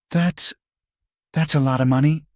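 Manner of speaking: high, halting disbelief; stunned hesitation. A narrator's reading. May hears of the twenty thousand bribe, stunned hesitation. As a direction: falter on a high pitch, taken aback.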